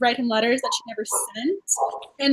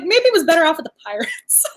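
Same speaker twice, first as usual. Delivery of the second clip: laughing quote; 3 semitones higher than usual. Retold or imitated. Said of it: "She's like".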